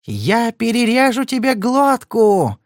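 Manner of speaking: high, slow shrieking threat; near-shriek. Acted. Marti shrieks a threat at Padler with a knife. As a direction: scream it, on the edge of hysteria. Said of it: "её голос стал похож на визг".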